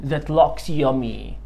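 very slow and clear; slow model sentence. Shown as a demonstration. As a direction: stretch each word for the child. Teacher models compliment slowly. (جملة بطيئة جدًا)

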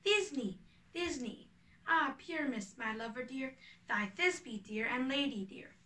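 a hint of a squeaky lovesick heroine; monstrous little voice. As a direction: Bottom hamming up a tiny maiden voice. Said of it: "I'll speak in a monstrous little voice".

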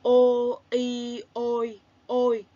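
slow, clear spelling out ô, y, ôi; syllable spelling. Shown as a demonstration. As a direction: spell each sound slowly for children. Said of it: "đánh vần là".

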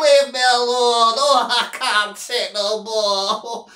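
mock wailing, long moaning vowels; Sheriff. Imitating the fed-up Sheriff begging the Doc, mock moaning. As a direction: whine and moan it in hammed-up self-pity. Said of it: "Did you see him?".

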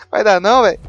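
high loud yell; exasperated shout. Real, not acted. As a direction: shout it out in defeat. Gives up with a yell.

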